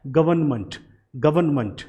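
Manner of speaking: गवर्नमेंट ending in "munt"; government pronunciation. Shown as a demonstration. Teacher modelling for students: गवर्नमेंट ending in munt. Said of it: "इसे कैसे बोला जाता है".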